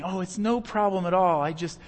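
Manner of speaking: lightly hammed-up sarcastic self-sacrifice; mock selfless. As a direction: play the martyr, overly gracious. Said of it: "somebody says".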